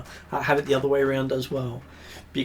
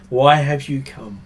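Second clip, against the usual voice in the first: sing-song call; 3 semitones higher, 9 dB louder than usual. Acted. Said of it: "calls out to Lani in a sing-song voice that carries".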